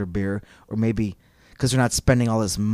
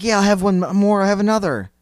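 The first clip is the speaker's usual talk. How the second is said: mock eager drinker; 8 semitones higher, 5 dB louder than usual. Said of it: "It's like".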